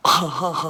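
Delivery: a loud, hammed-up villain laugh; evil cackle. Boss cackling after upgrading the employee, loud villain laugh.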